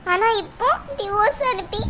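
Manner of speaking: mother crying over her daughter's divorce; tearful lament. Acted. Mother weeping to herself over daughter's broken marriage. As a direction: voice catching on a sob.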